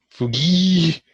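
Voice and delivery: calling out. Pretend. Calling out to a game character.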